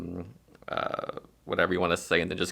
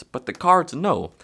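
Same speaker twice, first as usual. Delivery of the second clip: mysterious; 9 semitones higher, 6 dB louder, slower than usual. Shown as a demonstration. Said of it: "And you say".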